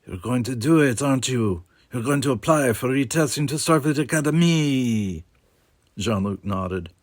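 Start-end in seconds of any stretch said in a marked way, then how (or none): 0.1-5.2 voiced character pressing his friend, pitched up; knowing accusation. A narrator's reading. Friend reacts to the secret plan, knowingly accusing. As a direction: press the point, pitch lifting toward the end.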